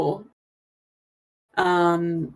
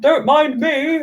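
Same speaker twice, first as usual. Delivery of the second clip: passer-by; 7 semitones higher, slower than usual. Acted. Game master voices passing bearded man.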